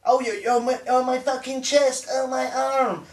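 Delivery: high, mocking cries of pain; jeering fake agony; mock heart attack. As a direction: imitate an old man clutching his chest. Mimics old man's heart attack.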